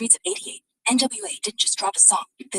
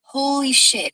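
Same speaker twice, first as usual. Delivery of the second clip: surprised exclaim; 3 semitones higher, 6 dB louder, much slower than usual. Real, not acted. Reacts to moon purchase.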